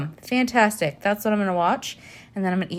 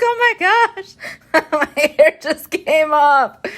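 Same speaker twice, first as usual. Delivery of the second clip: high, louder mock panic; retold alarm; 9 semitones higher, 8 dB louder, slower than usual. Showing Jeffrey her torn hair in mock alarm. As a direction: replay her shocked cry to Jeffrey. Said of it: "But I showed Jeffrey".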